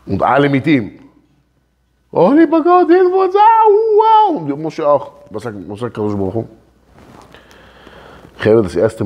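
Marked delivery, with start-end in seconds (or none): 2.1-4.3 high, loud desperate crying out; loud cry to God. Acted. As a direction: wail a prayer to God in panic.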